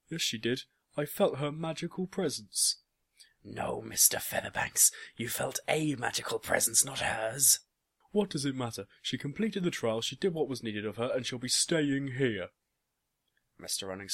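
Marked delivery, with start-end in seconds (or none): 0.1-2.8 high, loud contradiction; arguing shout. A narrator's reading. Boss insisting he felt her magic, arguing shout. 3.4-7.6 loud, emphatic correction; forceful argument. A narrator's reading. Men quarrelling over whose magic it was, forceful argument. 8.1-12.5 loud, high, defiant protest; heated outburst. A narrator's reading. Father insisting his daughter will stay, heated outburst.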